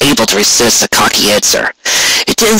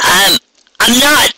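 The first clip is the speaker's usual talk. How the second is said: higher, slow stammer; choked fear; 12 semitones higher, slower than usual. A narrator's reading. Hostage with blade at throat, stammering in fear. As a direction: squeeze it out afraid. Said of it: "she managed to answer".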